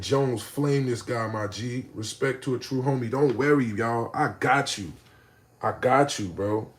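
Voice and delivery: laid-back surfer dude. Retold or imitated. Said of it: "Surfer dude voice".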